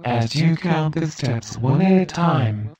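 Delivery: steady, measured hypnotist cadence with long pauses; calm hypnosis script. Acted. Hypnotist giving trance triggers to the listener, measured hypnotic voice. Gives post-trance instructions.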